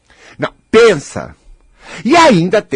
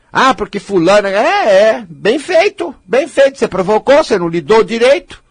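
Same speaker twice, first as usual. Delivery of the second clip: mock gloating; 3 semitones higher than usual. Mimics gloating gossip.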